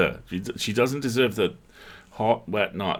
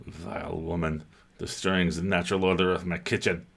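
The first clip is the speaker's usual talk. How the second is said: lightly voiced haughty cat; 3 dB quieter than usual. The cat complains about the woman, lightly voiced disdain. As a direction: grumble like an offended cat.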